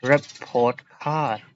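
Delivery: slow, even stress on both words; equal stress. Shown as a demonstration. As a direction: report card with equal stress on report and card. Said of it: "you pronounce them with equal stress".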